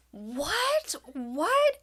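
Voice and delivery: high, questioning double take; mock disbelief. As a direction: pitch it up, acting baffled. Embarrassed mother feigns not understanding.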